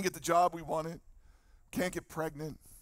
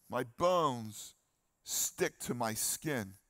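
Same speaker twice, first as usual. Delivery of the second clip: slow mournful reading, fading lower at the end; lamenting psalm reading; 3 semitones lower, slower than usual. Acted. Preacher reads David's lament of wasting bones, slow and mournful. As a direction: let the lament sink slowly.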